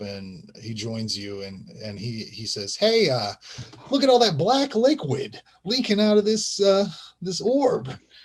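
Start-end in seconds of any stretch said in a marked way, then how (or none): 2.8-7.9 put-on weird young boy voice, much higher. Narrating a game scene, the speaker voices the paperboy Rodney in his weird voice. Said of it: "He's got a weird voice".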